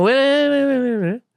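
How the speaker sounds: high, urgent string of waits; frantic second thought. Acted. Stopping himself after the urge to snap, frantic second thought. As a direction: sputter them out like pulling yourself back. Acting out his snapping reaction.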